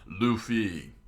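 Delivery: loud urgent call; shouted cry to a friend; screamed out. Acted. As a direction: scream the name in alarm. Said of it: "Zolo screamed out".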